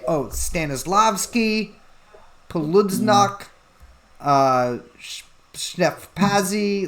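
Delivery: slow, halting, stumbling over each long name; fumbling through made-up Polish names; hesitant Polish names. Acted. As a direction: drag the names out uncertainly. Poles give long names.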